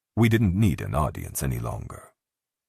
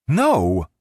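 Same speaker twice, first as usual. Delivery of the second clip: loud, high horrified no; 10 semitones higher, 8 dB louder than usual. Acted. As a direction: blurt it out, appalled. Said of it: "Val sounded horrified".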